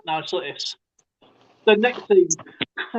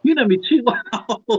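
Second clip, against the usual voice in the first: laughing through the words; amused; 4 semitones higher than usual. Real, not acted. Man teased about his daily doings, amused and laughing. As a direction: break into a laugh as you say it.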